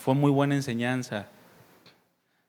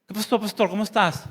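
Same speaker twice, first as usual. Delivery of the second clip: put-on posh fresa accent; 3 semitones higher than usual. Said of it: "hablando con la papa en la boca".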